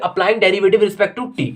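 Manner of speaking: spelling out the step slowly for the class; slow dictation. Shown as a demonstration. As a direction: dictate every word slowly. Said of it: "reads the step slowly".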